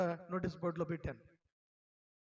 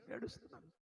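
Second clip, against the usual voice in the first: ఏడుస్తున్నాను soft, cracking up into a much higher, tearful voice; voice breaking; 10 dB quieter than usual. Retold or imitated. Preacher reliving his graduation tears, voice breaking on ఏడుస్తున్నాను.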